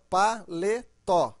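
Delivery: PALETÓ broken slowly into pa-le-tó; syllable by syllable. Shown as a demonstration. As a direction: separate each syllable of "paletó" with short gaps. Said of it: "Então, três sílabas".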